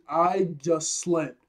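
Luffy screaming how well he slept; joyful scream. Retold or imitated. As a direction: burst out of the barrel shouting with joy. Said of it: "he screams".

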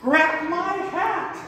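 high, drawn-out mock shriek; slow, strained cry for help; retold shriek. Storyteller pinned with a bird calling to onlookers, mock shriek. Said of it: "And I shrieked".

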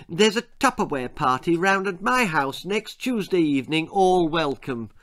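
sweet invitation. Acted. Missus Deacon inviting the committee round, sweetly. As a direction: announce it sweetly, slowing on the welcome. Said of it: "she said sweetly".

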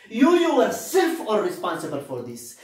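"you yourself" hit hard, then easing off; emphatic stress on yourself. Shown as a demonstration. Teacher showing students the tone of an emphatic pronoun, stressed "yourself". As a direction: lean firmly on "yourself". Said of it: "Look at the tone of this sentence".

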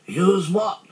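high, loud baffled bear; high puzzled voice; Pooh. A narrator's reading. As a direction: ask it in high-pitched bewilderment. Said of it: "said Pooh".

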